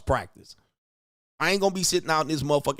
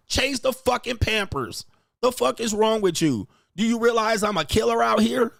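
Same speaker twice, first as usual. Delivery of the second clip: mock furious rant; 6 semitones higher than usual. Husband ranting at his wife over diapers and dishes, outraged. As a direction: play the husband blowing up over chores.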